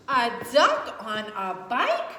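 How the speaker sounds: giggly mock cow; laughing cow. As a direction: laugh through it in disbelief. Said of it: "what she thought was".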